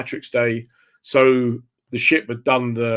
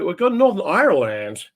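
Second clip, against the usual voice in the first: higher-pitched imitation of a Canadian-Jamaican friend; Ronnie Edwards; 6 semitones higher than usual. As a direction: mimic a laid-back friend marvelling at the place. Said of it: "And he's like".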